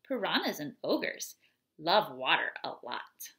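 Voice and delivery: expressive read-aloud of a rhyming poem. Acted. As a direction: read it to the children with lively rhythm. Reads ogre poem aloud.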